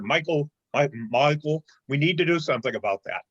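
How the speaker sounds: put-on Ian's accent. Treasurer to Michael at the board meeting, lightly mimicked accent. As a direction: quote a colleague in an imitation of their accent. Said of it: "that was a good accent".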